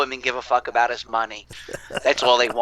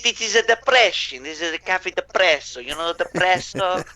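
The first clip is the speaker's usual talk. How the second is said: higher-pitched joking Italian character; mock Italian; 4 semitones higher than usual. Joker introducing his cafe depresso to friends, mock Italian. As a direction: lightly put on an Italian voice for a pun.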